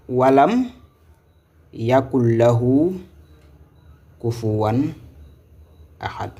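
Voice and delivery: slow walam, yakul lahu, kufuwan, ahad with pauses between; measured model reading. Shown as a demonstration. Teacher modelling the correct reading, slow and in separate parts. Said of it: "C'est comme ça qu'il faut lire".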